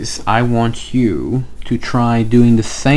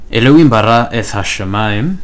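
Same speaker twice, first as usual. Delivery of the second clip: "Elohim" first and weighted, quick and loud; stress on Elohim; 4 dB louder, faster than usual. Shown as a demonstration. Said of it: "Notice how the flavor changes".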